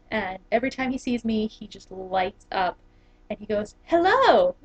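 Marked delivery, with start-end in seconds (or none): 3.8-4.5 imitating an old man's loud, high British hello; a bright British English greeting, called out. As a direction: mimic a cheerful elderly Englishman saying hello in a British accent. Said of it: "Very British English".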